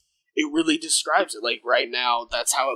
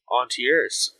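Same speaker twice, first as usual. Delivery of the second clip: newscaster voice. Real, not acted. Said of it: "I said that like a dumbass, like, newscaster".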